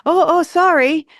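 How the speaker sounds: high, drawn-out startled apology, imitated; mildly nervous apology. Tourist steered out of the way, nervously apologizing. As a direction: imitate someone caught off guard, pitch way up. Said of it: "she was a little nervous".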